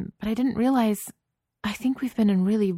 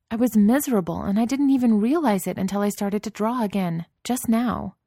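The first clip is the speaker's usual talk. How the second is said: rising from firm to a furious shout, higher and louder; building angry shout; 5 semitones higher, 5 dB louder than usual. A narrator's reading. Wife yelling at her dismissive husband, building to a furious shout. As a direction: let the anger build until she is yelling. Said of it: "She was shouting by the end of it".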